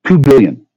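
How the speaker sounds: high, loud "two" punched out; stressed figure. Real, not acted. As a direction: hammer the word "two". Repeating the sum.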